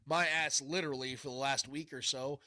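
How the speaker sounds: blocked nose, nasal voice; stuffy nose. Real, not acted. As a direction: talk through a stuffed-up nose. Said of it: "yes, I'm a little stuffed up still".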